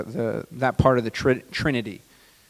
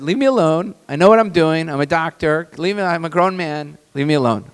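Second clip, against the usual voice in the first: irritated retort; 3 semitones higher, 3 dB louder than usual. Retold or imitated. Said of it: "I said".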